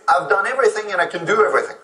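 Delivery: fast, rattled-off boast of doing everything. Retold or imitated. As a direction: rush through it like a bragging resume. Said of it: "their resume usually screams that".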